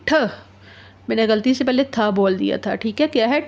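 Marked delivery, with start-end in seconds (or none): 0.1-0.1 ठ with a strong breath after it; heavy letter sound. Shown as a demonstration. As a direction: push air out on ठ. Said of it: "भारी आवाज़ क्या होगी". (ठ को भारी आवाज़ में बोलें)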